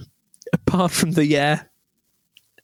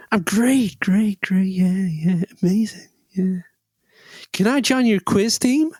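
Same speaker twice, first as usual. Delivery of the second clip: eager mock American, pitched up; American accent; 3 semitones higher, slower than usual. American stranger asks to join a quiz team, put-on American accent. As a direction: gush in an imitated American accent. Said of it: "this American guy comes up to us".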